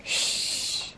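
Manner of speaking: soft unvoiced shush. Real, not acted. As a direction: hush them quietly.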